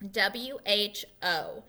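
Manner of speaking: slow letter by letter W, H, O; spelling out. Shown as a demonstration. Teacher spelling the word slowly for children. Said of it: "And it is spelled".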